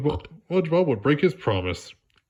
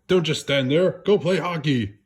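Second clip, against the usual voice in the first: Mr. Krabs urging; 5 semitones higher than usual. Acted. Mr. Krabs pushing SpongeBob out.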